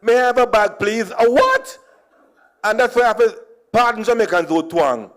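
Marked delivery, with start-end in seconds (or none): 0.0-1.1 put-on Jamaican accent. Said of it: "I said". 1.1-1.8 confused cashier. Retold or imitated. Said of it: "cashier confused".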